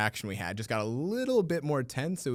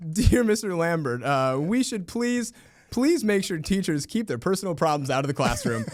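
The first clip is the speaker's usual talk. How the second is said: prim parent letter; 6 semitones higher, 5 dB louder than usual. Retold or imitated. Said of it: "multiple parent emails who had said".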